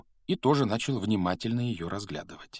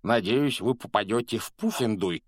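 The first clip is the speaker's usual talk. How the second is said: friendly, put-on ghost voice, a bit louder; jolly preacher character voice; smiling preacher ghost; 3 semitones higher, 4 dB louder than usual. A narrator's reading. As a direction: say it through a smile as a jolly ghost. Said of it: "продолжал улыбаться проповедник".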